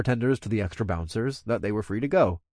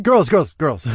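interjecting; 4 semitones higher, 7 dB louder, slower than usual. A narrator's reading. Narrator to squabbling friends, cutting in loudly. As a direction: break up the bickering firmly. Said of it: "I interjected before the witch".

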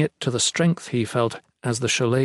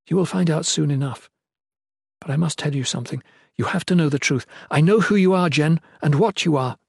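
slightly higher, earnest woman's voice; a hint of a solemn noblewoman; lightly voiced queen, confiding; 4 semitones higher, faster than usual. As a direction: insist gently on telling the truth.

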